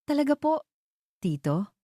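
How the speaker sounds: put-on high, eager little boy's question; delighted child. Leo asking his tito, delighted high child voice. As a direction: squeal it like a thrilled kid. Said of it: "Tuwang-tuwang tanong ni Leo".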